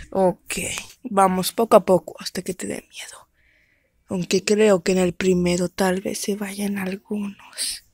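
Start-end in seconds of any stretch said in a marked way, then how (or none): 1.0-7.8 whispered announcer. Acted. Host whispers the contest to the audience. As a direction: whisper it like a secret show.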